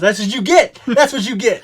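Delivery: high, loud taunting yell through laughter; retold gloating yell. Friend yelling at him for his bloody nose, gloating. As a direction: imitate a friend jeering at your mishap. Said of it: "And my Cody Gray yells".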